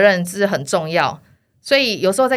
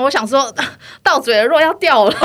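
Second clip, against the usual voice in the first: words broken by laughter, higher pitched; laughing; 7 semitones higher, 6 dB louder than usual. Real, not acted. Guest laughing while recalling the deal slipping away.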